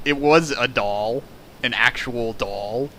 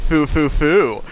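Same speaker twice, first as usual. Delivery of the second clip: mock chuckle; 2 semitones higher, slower than usual. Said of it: "The woman chuckled to herself".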